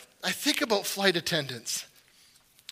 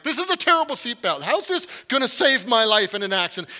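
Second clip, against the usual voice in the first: mock panic; 4 semitones higher, 5 dB louder than usual. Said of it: "I'm like".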